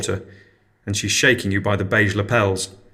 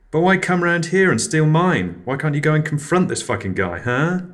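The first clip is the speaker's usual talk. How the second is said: indignant anger; 7 semitones higher than usual. Acted. Neighbour indignant.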